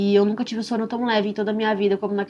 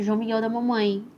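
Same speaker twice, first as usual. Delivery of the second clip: tender sing-song. Retold or imitated. Mother cooing to her newborn in the incubator, lightly tender. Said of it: "com a mesma entonação, com a mesma voz".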